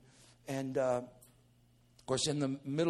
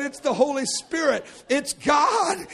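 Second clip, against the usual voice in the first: raised, loud insistence; excited proclamation; 10 semitones higher, 9 dB louder than usual. Acted. Preacher explaining the Spirit to brother, excited proclamation. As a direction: build to a shout on the last word.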